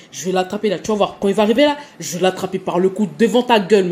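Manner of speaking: mec menaçant qui s'emporte, plus fort; imitation du type agressif. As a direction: joue le gars qui menace, voix forte. Reconstitution de la dispute avec le type. (imitation du type en colère qui menace)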